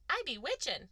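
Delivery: light character imitation; Wendy. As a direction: pipe it up as a playful film quote. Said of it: "Wendy changes into her little red outfit and goes".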